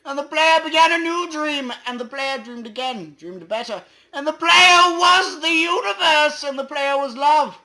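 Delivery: high, loud, squeaky climax; squeaky grand finale. Acted. The End Poem's ending in a loud chipmunk voice.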